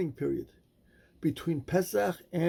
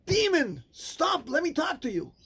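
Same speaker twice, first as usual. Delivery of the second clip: much higher, exasperated cry; frustrated; 10 semitones higher than usual. Acted. Rabbi Akiva, frustrated the man won't stop, cries out sharply. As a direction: snap at him in frustration. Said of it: "in his frustration said".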